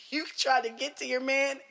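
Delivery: high, loud words broken by laughter; can barely get it out for laughing. Real, not acted. Laughing hard while explaining the dream to her aunt.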